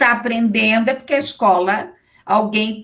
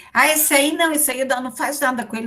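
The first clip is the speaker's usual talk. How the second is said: higher-pitched imitation of dismissive staff; mock refusal; 5 semitones higher, much faster than usual. Lecturer mimicking staff awaiting a report, mock refusal. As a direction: mimic someone waving a pupil away.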